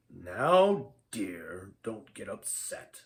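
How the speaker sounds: low, soft placating voice; calm her down, dropping soft and low; gently pacifying; soothing old wizard. A narrator's reading. Wizard soothes angry Lydia.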